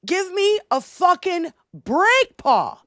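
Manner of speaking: heavy mock New York accent. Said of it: "It's my terrible New York accent".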